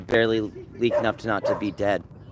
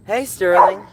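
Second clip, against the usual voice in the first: high, loud call to a dog; 7 semitones higher, 7 dB louder, slower than usual. Real, not acted. Owner calling out to dog Sterling, high and loud. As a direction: sing out the dog's name, higher and louder.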